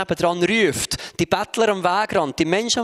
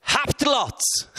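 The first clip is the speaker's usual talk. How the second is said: higher, slow, snapped telling-off; harsh rebuke; 6 semitones higher, much slower than usual. Shown as a demonstration. Preacher shows how the disciples rebuked the beggar, harsh. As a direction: bark it unfriendly. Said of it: "definitiv nicht freundlich".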